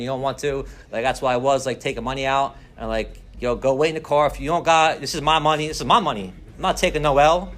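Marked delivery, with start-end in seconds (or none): 3.4-7.5 louder, pushy and stubborn, waving her off; heated insisting. Retold or imitated. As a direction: brush her off hard, he's not leaving the table. Insists on gambling, sends ex away.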